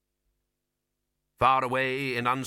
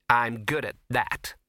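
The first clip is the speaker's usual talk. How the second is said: resigned; 4 dB louder, slower than usual. A narrator's reading. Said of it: "she said resignedly".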